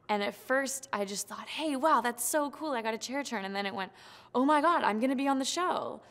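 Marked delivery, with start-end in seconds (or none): 1.5-3.4 higher, louder burst of delight; excited thrill. Retold or imitated. Contestant recalling her first chair turn, excitedly. 4.3-6.0 higher and louder, rising joy; overjoyed. Retold or imitated. Contestant retelling her thought on making the show, overjoyed.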